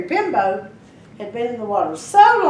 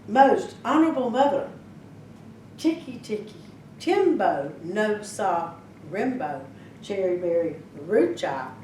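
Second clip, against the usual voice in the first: very slowly. Acted. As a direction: drag each word out wearily. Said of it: "and very slowly".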